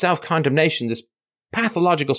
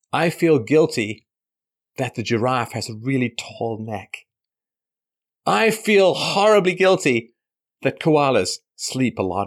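slow, hammed-up guilty lament; mock guilt. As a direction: drag out the fake guilt. Mock guilt about animals.

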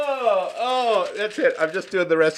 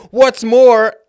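laughing; 3 semitones higher, 12 dB louder than usual. Real, not acted. Tries reading, breaks laughing.

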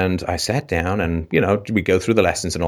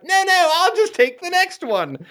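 much higher, airy, lightly mock-posh "no, no"; breezy refusal. English boy refusing to run, airy nonchalant reply. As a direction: wave them off nonchalantly, a touch of put-on poshness. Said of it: "I'm like".

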